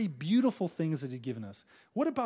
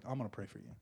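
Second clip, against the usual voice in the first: much lower and softer, gentle; humble soft voice; 10 semitones lower, 13 dB quieter, faster than usual. Pretend. Humble Moses telling the people he'll pray, soft and meek. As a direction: say it meekly, almost under your breath.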